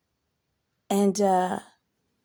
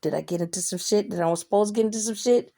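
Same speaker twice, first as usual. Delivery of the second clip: quick worried thought; 2 semitones lower, faster than usual. Retold or imitated. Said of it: "I thought real quick".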